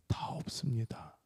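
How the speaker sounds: slow whispered answer; hushed reply. Acted. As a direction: play the spared woman, barely voiced. Acted woman answering Jesus after danger.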